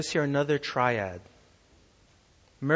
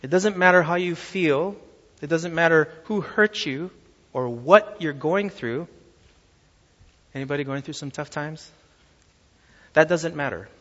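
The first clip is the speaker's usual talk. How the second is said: rising, louder preaching to a shouted forever; preaching at full force; 5 dB louder than usual. Real, not acted. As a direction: build the reassurance to a peak. Preacher builds to climax.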